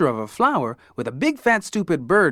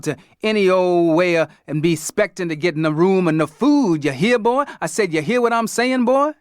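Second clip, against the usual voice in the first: put-on Dad lampooning a Southern cracker in a hillbilly accent; 3 semitones higher, 4 dB louder than usual. Dad teases the kids in a mock hillbilly accent. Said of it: "Dad did an imitation of a hillbilly accent".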